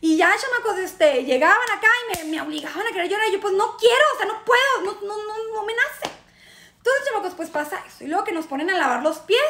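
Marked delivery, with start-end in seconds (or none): 3.5-6.2 higher-pitched pleading refusal; mock protest. Pressed by others to cry, mock protest. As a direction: protest as if pushed to do it. Acted protest at forced crying.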